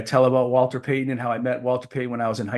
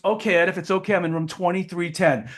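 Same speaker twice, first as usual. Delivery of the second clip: high-voiced imitation; Walter Payton; 4 semitones higher than usual. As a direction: give directions in a put-on high voice. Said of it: "Walter had a high voice".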